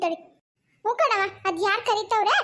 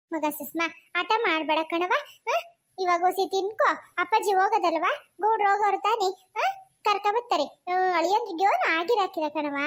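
gentle coaxing; 2 semitones lower than usual. Acted. Elder soothes crying Sushma over food, gently coaxing. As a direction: comfort her and coax her to eat.

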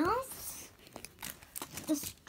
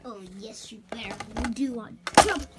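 menacing villain; 3 semitones lower, 5 dB louder than usual. Acted. Villain answers the ponies.

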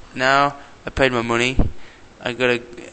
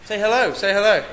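higher, louder coaxing; 9 semitones higher, 6 dB louder than usual. Real, not acted. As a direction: urge him to greet the camera. Urging Mike to greet.

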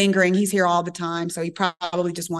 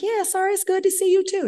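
awkward reply; 13 semitones higher than usual. Retold or imitated. Her awkward reply retold.

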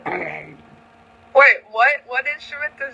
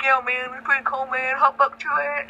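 fast dude imitation; 3 semitones higher than usual. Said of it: "I like talking like this, like, I like to talk fast".

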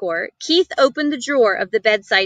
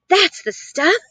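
encouraging; 7 semitones higher, slower than usual. A narrator's reading. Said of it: "encouraged the boy".

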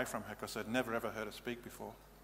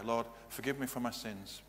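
soft prayer; 5 dB quieter than usual. Shown as a demonstration. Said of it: "rededicate their lives to Jesus Christ in a simple prayer".

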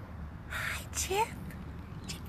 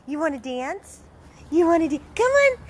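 playful high squeal, loud and teasing; high-pitched playful; 10 semitones higher, 6 dB louder than usual. Real, not acted. Owner playfully chasing her dogs in a high squeal. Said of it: "When I talk all high pitch".

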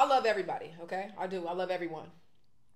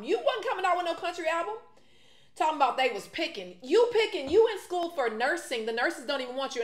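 angry rant; 4 semitones higher than usual. Real, not acted. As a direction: tear into her with building outrage. Ranting at Asa's comments.

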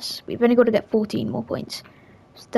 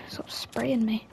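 whispering; 7 dB quieter, slower than usual. Real, not acted. Being shot at in game.

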